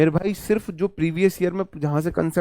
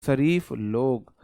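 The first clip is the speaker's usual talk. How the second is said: slow repeat; 3 semitones lower, much slower than usual. Shown as a demonstration. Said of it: "जेंट्री होता है मेरे भाई शरीफ लोग".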